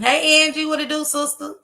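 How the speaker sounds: high, loud hype hello; excited greeting. Real, not acted. Greeting a newbie on the livestream, loud and high. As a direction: hype up the newcomer.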